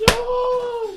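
shrill no. Real, not acted. Bubble wrap being popped.

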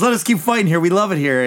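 lightly acted, high manic begging; mock crazed plea. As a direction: plead like an unhinged fighter. Acting the crazed fighter's plea.

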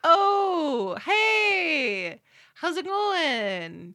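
fake cheerful greeting. Acted acquaintance greeting.

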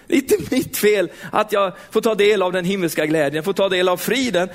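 ordinary talk

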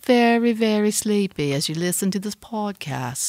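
slow hypnotic sleep-app voice; mock hypnotist lull; sleepy soothing. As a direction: coax them to sleep. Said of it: "now you're doing A S M R shit".

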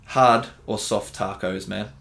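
slow, weighty mock-serious question; drawn-out mock-solemn big question. Shown as a demonstration. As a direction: pose it slowly like a grave debate topic. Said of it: "this is a really big topic for me".

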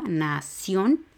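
nación broken as NA, CIÓN; stress on last syllable. Shown as a demonstration. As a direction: land on a long CIÓN in nación. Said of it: "porque es la última sílaba".

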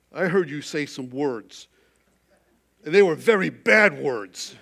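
a lightly voiced child, loud on the bad words; an eight-year-old's honest report, lightly played; child's voice. Young son tells his father what he heard, lightly voiced child.

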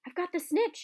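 high, loud triumphant shout. Acted. Harry yelling to the crowd, a triumphant shout. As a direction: yell it out, holding the prize up. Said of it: "he shouted".

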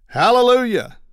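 high, loud cry of relief; mock hallelujah shout of relief; joyful shout. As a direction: belt it out like the pain is finally gone. Man wakes, neck pain gone.

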